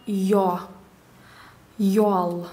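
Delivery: rounded yo in «ё», «ёл»; teacher's careful demo of «ё»; я read as ё. Shown as a demonstration. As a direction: say «ёл» with a rounded first-syllable vowel. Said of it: "в первом слоге как".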